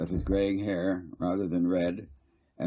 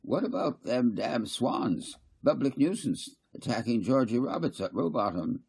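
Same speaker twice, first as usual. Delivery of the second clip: put-on piping old man; 5 semitones higher than usual. Old McCoyd piping up from the corner, higher. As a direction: pipe up from the corner like an old codger.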